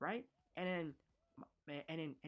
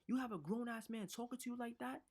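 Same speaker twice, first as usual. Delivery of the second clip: higher, outraged mother's question; mock outraged mother; 8 semitones higher than usual. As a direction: play the mother's disbelief, voice raised high. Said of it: "my mother got so mad".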